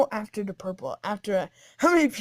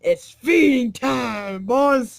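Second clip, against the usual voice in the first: calling the pack; 5 dB louder, much slower than usual. Acted.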